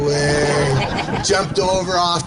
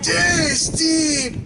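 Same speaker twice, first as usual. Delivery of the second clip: higher, laughing imitation of a frightened call; teasing reenactment of a panicked shout; mock scared calling; 12 semitones higher, much slower than usual. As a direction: ham up the boy yelling for Steve. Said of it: "Dane, uh, getting scared".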